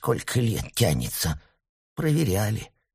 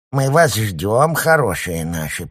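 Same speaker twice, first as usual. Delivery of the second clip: put-on mumbled old woman; 4 semitones higher, 6 dB louder, slower than usual. A narrator's reading. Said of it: "прошамкала Любовь Матвеевна".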